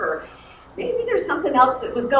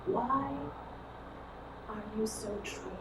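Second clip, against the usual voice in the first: much softer, faster gentle question; soft and quick; 2 semitones lower, 17 dB quieter than usual. Acted. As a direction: ask it quickly in a near hush. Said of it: "Jesus said to us".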